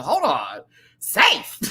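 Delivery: high, loud squeal of disbelief; shocked disbelief. Retold or imitated. Disbelief at the judges' call, a high loud shriek. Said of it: "I said".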